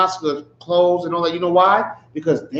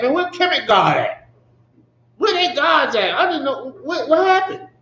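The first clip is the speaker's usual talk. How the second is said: higher, sarcastic jeer; mocking; 4 semitones higher than usual. Preacher jeering at Kemet gods, higher mocking voice. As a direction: scoff at the missing gods. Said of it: "He's mocking their God".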